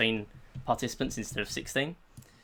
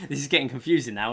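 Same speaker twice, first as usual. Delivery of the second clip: laughing; 2 semitones higher, faster than usual. Real, not acted. Laughing at a confusing rule.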